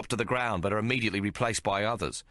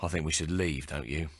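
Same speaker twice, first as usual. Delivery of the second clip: slightly panting; 4 semitones lower than usual. Acted. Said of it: "panting slightly from the fight".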